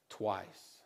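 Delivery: "twice" said very low and soft; solemn low ending; low quiet drop. Shown as a demonstration. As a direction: let "twice" sink. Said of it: "repeats twice".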